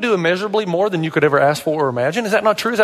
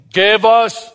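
high, loud, chanted demand; mock riot chant, pitched high; rioting crowd; 7 semitones higher, 4 dB louder, much slower than usual. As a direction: clamour like an angry mob, higher on each demand. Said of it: "People are rioting".

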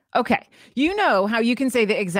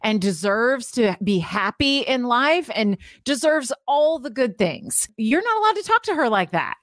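high-pitched, emphatic sticking-up for a friend; protective friend; 5 semitones higher than usual. Acted. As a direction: insist fondly, stretching out the praise. Defending a friend from self-criticism.

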